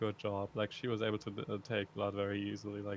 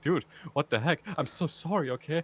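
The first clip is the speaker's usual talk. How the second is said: laughing high and loud at the absurd moment; half-laughing, stunned sympathy; laughing disbelief; 8 semitones higher, 14 dB louder than usual. Retold or imitated. Retelling how he answered the crying doctor, laughing.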